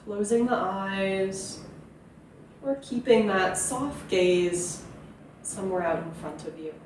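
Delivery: unhurried meditation guiding with long pauses; guided meditation. Acted. Yoga teacher settling listeners into their seat, guided meditation. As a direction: ease them gently into stillness, leaving space between phrases.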